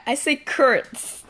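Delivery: carrots said as "kurts"; odd pronunciation. Real, not acted. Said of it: "why do you say it like that".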